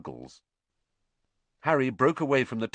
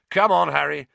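loud, slightly high summons; calling out; 4 semitones higher, 8 dB louder than usual. A narrator's reading. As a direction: call him over through a crowd. George calls Harry to the party.

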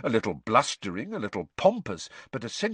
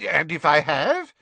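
higher, louder, defiant minister; defiant Fudge; 6 semitones higher, 6 dB louder than usual. A narrator's reading. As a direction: push back, stubborn and affronted. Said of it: "a defiant and obstinate look".

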